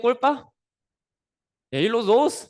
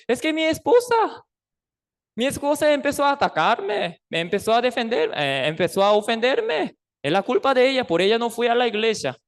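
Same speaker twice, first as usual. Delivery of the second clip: higher, complaining husband blaming his wife; whiny excuse; 4 semitones higher, faster than usual. Acted. Church member to pastor, making whiny excuses. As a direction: pin the blame on her, whining a little.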